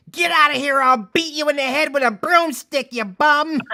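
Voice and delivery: high, loud furious bar lady shouting at a bum; bartender yelling. Retold or imitated. Bar lady screaming at the homeless man, high furious yell. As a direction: chase the bum out at full volume. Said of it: "they would be like".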